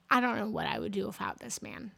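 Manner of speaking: fast offhand thanks; quick throwaway. Real, not acted. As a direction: toss it off quickly. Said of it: "Let me just say".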